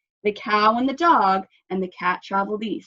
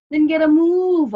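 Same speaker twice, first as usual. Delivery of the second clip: ordering; 8 semitones higher, 8 dB louder than usual. A narrator's reading. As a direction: order them forward firmly. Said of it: "Cat ordered".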